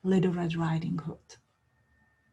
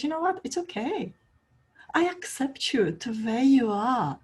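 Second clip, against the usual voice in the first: lightly voiced girl comforting the wolf; tender acceptance; 3 semitones higher than usual. Red Riding Hood accepting the wolf.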